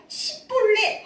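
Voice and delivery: "십볼렛" with a plain s instead of sh, high and loud; "십볼렛", sh flattened to s, shouted high; 경상도식 "십볼렛", 높고 크게; mispronounced shibboleth. Shown as a demonstration. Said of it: "쉽볼렛이 안 되고".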